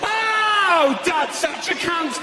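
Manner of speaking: high, drawn-out chant; gleeful sung-out kids' insult; acted kids. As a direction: cheer like kids in the aisle. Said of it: "and they go".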